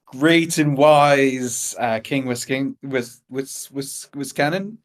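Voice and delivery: slow, stumbling courtly greeting; formal curtsy greeting. Acted. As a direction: stumble over the king's name. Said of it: "her deepest curtsy and go".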